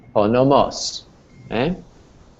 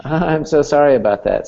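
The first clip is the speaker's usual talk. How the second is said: laughing apology; 4 semitones higher than usual. Real, not acted.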